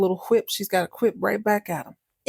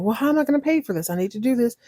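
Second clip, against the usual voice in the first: higher, hurried frustrated plea; mock frustration; 5 semitones higher, much faster than usual. Val can't pay for the meal, acting frustrated. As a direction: rush it out, exasperated, in imitation. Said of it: "she's getting frustrated".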